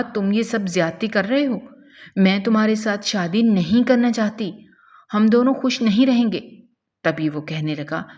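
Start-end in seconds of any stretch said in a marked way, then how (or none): 0.0-6.4 frightened pleading. Acted. Girl begs captor against forced marriage.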